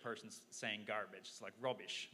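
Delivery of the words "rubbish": attempted British accent on one word; amateur mock British accent. Shown as a demonstration. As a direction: have a go at sounding British, briefly. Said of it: "that's my best British accent".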